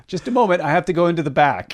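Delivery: high, loud cow shopkeeper; high Clara Cow voice. Pretend. Voicing Clara Cow in shop.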